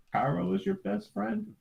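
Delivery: put-on high, slow wide-eyed girl asking; girl's voice. Friend voicing Jasmine, puzzled, in a high slow voice. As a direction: ask it like a puzzled little girl. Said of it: "Jasmine voiced in retelling".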